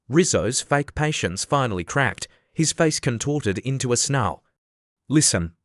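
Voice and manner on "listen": growled. Acted. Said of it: "he growled".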